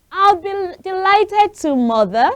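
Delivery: put-on high, bright-eyed girl eager to help; a high, eager little girl. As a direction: lift it up into a young girl's voice. Girl voiced in read story.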